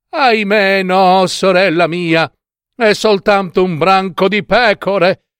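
high-pitched lament; dismayed sister. Acted. Sister reports only sheep, dismayed. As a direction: wail the bad news to your sister.

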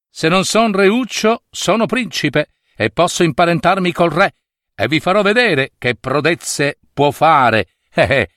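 a hint of a cheeky suitor; boastful barber. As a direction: brag to the princess, ending in a chuckle.

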